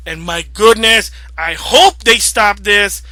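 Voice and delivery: loud, upset outburst; angry gamer yelling at the publisher; real yelling. Real, not acted. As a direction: raise the voice in frustration. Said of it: "Sorry if I'm yelling".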